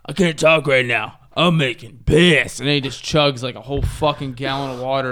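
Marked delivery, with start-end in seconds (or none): 0.1-2.6 slow, drawn-out mimicry; imitating TikTok guy. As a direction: quote the TikTok guy slowly. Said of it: "This guy, this guy goes".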